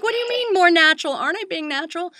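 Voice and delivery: high-pitched mock indignation; baffled protest. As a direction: push it up high, an incredulous retort. Acting out her baffled protest.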